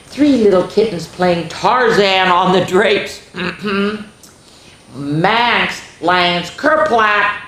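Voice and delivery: put-on lively read-aloud for young kids; sing-song picture book voice; storybook reading.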